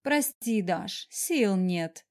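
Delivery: slow, tired whine; whining. Acted. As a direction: drag the words out wearily. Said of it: "заныла я".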